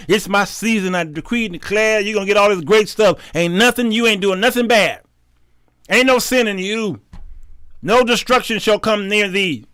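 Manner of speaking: mock a prophet promising good things; prosperity prophet. Preacher imitating prophets promising riches to followers, lightly mocking prophecy. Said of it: "That's all they prophesy to you".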